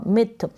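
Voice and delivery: मिथ with a short i, not माइथ; correct pronunciation. Shown as a demonstration. Teacher correcting the misreading of myth, short i in मिथ. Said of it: "यहाँ पर माइथ नहीं पढ़ेंगे".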